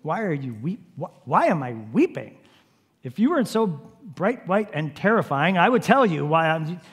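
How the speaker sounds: hurt disbelief, trailing off into grief; indignant grieving retort. Acted. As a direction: answer the angel, offended then broken. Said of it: "smart aleck angel who asks you".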